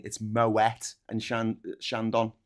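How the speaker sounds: Moet with a sounded T, slow; pronounced Moet. Shown as a demonstration. Showing the posh way to say Moet, slowly. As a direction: say Moet with the T, "Mo-ett". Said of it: "it's not Moet and Chandon champagne".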